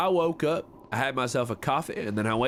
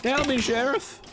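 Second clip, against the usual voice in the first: other character line. Acted. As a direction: challenge the sheriff. Game character voice, far.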